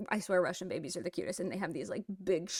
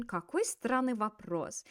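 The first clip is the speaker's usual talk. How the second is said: slow какой странный вопрос with a falling end; exclamation intonation; 3 dB quieter, slower than usual. Shown as a demonstration. Teacher repeats to show the intonation, slow falling какой странный вопрос. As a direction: draw out странный, let вопрос fall. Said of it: "we gotta use that intonation".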